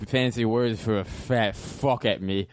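put-on slurred drunk with a lisp; an angry drunk insisting he's sober; angry drunk guy. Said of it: "do the angry guy drunk".

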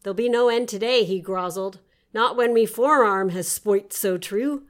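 playful storybook read; story narration. Acted. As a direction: read it like a tall sea tale. Reads her nonsense story aloud.

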